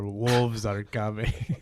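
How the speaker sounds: slow, laughing repeat of the line; mock dramatic drop, laughing; laughing mimic. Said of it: "That's a sound drop right there".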